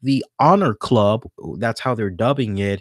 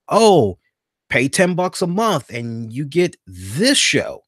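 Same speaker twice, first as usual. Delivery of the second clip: mock sales pitch. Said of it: "and they're like".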